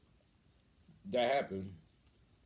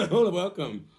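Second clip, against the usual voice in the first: higher and louder, through a laugh; laughing repeat; 9 semitones higher, 10 dB louder than usual. Retold or imitated. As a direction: laugh while saying it.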